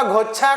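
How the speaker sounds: गुच्छा said as "ghochha", with gh and o; mispronounced word. Shown as a demonstration. Teacher quotes the common mistake about keys, गुच्छा mispronounced as "ghochha". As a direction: mimic the wrong form of गुच्छा, "ghochha". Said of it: "गुच्छा नहीं होता है".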